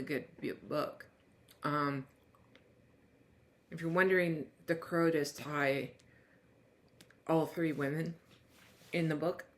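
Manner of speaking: talking with food in mouth; mouth full. Real, not acted. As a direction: speak around a small bite. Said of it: "Sorry, I had a little food in my mouth".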